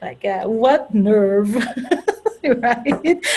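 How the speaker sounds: high, real laughter around the words; laughing at herself. Real, not acted. Speaker laughing at her own self-doubt, real laughter. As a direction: laugh through a mock scolding of herself. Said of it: "I'm laughing because I'm laughing at myself".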